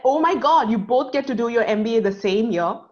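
high, loud gushing mother-in-law; imitating a thrilled mother-in-law; excited mother-in-law. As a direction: burst out with her delight. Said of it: "was super excited".

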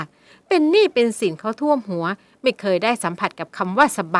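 loud bitter tirade; mother vents at her daughter; long angry rant. Acted. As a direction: pour out years of resentment. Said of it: "ร่ายยาว ราวกับต้องการระบายความอัดอั้น".

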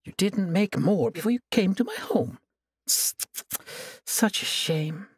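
taunting sorceress, savoring every word; gloating villainess. Acted. Sorceress gloating over her chained prisoner, taunting.

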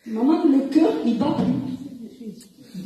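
slow, separated words, retold; articulating on request. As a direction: repeat the news slowly, word by word. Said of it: "Articule, hein".

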